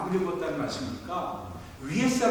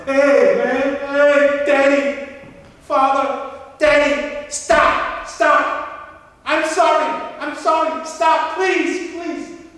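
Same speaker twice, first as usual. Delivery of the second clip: loud, much higher frantic begging; desperate pleading; 9 semitones higher, 10 dB louder, much slower than usual. Retold or imitated. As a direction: beg him to stop, near tears. Son begs father to stop crying.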